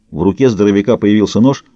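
ordinary delivery

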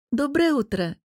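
light, pleasant lift in the voice; smiling greeting. A narrator's reading. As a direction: greet the patient with a smile. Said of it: "улыбнулась женщина".

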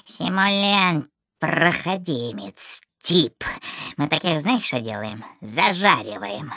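sinister slow drawl; menacing witch voice; horror host. Acted. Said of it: "зловеще протянул". (зловещий протяжный голос)

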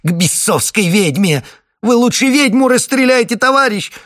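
high, loud frantic begging; shrill plea. Acted. Wife begs the captain, loud and high. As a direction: beg him to shoot the witch.

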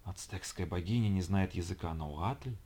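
slow, soft mocking creature; demon voice. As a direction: sneer slowly like a smoky demon. Demon mocks goddess.

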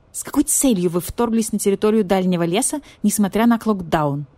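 grim, stern questioning; a hint of dark interrogation; gloomy. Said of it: "мрачно спросил маркизу барсукот".

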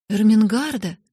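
startled, loud cry of a name; surprised exclamation. Acted. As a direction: call out in alarmed surprise. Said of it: "воскликнула Сара, удивившись". (удивлённо, с испугом)

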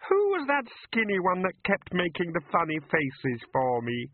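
high, tearful fairy voice; a teary fairy apologising; weepy fairy. Acted. The fairy apologises to the wrangler, tearful and high.

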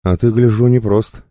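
pretending to be cheerful; fake cheer. A narrator's reading. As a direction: put on a jolly front. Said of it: "продолжал деланно веселиться Косой".

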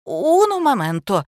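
flustered fake-Italian flourish; fussy. A narrator's reading. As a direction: fluster out a cheery uno momento. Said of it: "засуетилась завуч".

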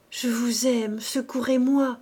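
pleading, ending in a breathy whisper; desperate plea. Acted. Marthe begging Ovide for help, voice breaking to a whisper. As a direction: beg him for help, voice failing.

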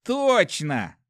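high, exclaimed agreement; eager agreement. A narrator's reading. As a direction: seize on the idea at once. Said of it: "согласился второй страж".

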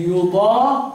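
slow يضاهون as yudaahuuna; recited يضاهون, long aa then huu; damma on haa. Shown as a demonstration. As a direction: draw out يضاهون with a u after the h. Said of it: "ضم الهاء إيه؟".

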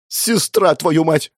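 put-on a boy yelling at his sister; angry shout. A narrator's reading. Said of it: "крикнул парень". (злой крик парня)

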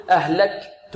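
"أهلكت" with a small voiced pop on the kaf; kaf with a clicked sound. Shown as a demonstration. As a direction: cut the breath after k in "أهلكت". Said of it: "يأتي بصويت". ("أهلكت" بصويت في الكاف دون همس)

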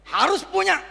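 high, loud, resolute declaration; firm cry. Real, not acted. Preacher vows to the congregation that Muslims must own it, loud cry. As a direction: declare it as an unshakable vow.

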